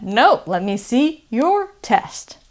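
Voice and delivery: "your" given full weight; stress on your. Shown as a demonstration. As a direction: lean on "your" to flip it back. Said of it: "I'm stressing this word".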